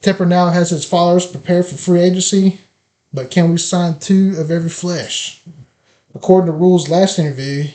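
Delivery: emphatic podcast opening monologue; scripted intro read. Acted. Host opens the free agency episode, scripted intro read. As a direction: deliver a prepared, rhetorical show opener.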